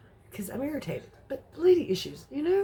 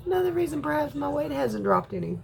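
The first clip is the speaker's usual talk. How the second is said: ordinary talk, nothing marked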